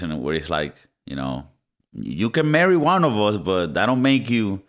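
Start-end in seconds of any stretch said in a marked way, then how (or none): 1.9-4.6 mock royal snub. Royal family quote, putting outsider down.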